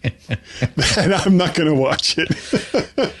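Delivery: slow, laughing through the words. Real, not acted. Cohost laughing at his friend's harsh review. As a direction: giggle it out slowly.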